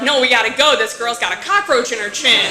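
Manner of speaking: urgent. Retold or imitated. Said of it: "we're like".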